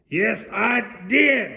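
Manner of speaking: loud, high, slow shout; shouting at the top of his voice. Acted. Mister Noisy shouting back at Mister Bacon, loud and high. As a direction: bellow it out slowly. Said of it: "shouted Mister Noisy at the very top of his voice".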